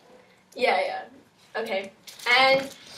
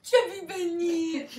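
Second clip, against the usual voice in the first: mouth full; 5 semitones higher, slower than usual. Real, not acted. Chubby bunny challenge, laughing mouthful.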